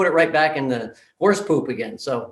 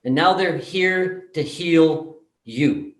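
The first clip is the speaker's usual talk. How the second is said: solemn earnest speech; 3 semitones higher, slower than usual. Retold or imitated. Therapist's solemn speech to everyone.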